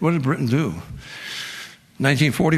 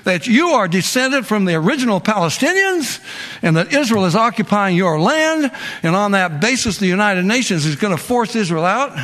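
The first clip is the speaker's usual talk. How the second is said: real anger; 4 semitones higher than usual. Real, not acted. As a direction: press the charge with open indignation. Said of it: "I really get angry".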